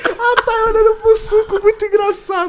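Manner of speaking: rindo. Real, not acted. Fala ainda rindo.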